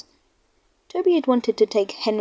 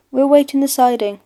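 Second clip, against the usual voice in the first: driver; 4 semitones higher, 6 dB louder than usual. A narrator's reading. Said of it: "said the driver".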